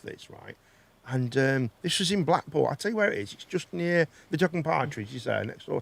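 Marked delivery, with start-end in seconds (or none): 0.0-0.5 whisper. Real, not acted. Aside while telling story.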